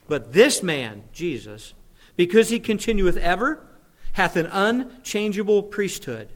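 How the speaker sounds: slow, emphatic reading with weighty pauses; slow scripture reading. Real, not acted. Pastor reading Hebrews aloud to the congregation, slow and emphatic. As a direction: read scripture out slowly and forcefully. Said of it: "just gonna read it slowly".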